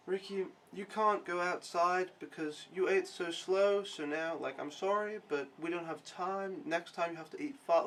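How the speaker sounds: imitating a patient, chill dad; really chill. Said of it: "in a really chill voice".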